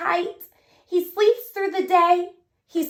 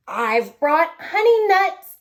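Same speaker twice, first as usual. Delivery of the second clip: grinning badger; 4 dB louder than usual. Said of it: "badger says with a grin".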